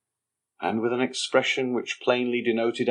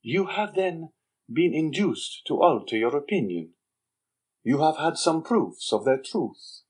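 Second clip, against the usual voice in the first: higher young man's voice, mocking and slow; sly young Andrea; 6 semitones higher than usual. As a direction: needle the Major with sly contempt. Andrea probes the Major.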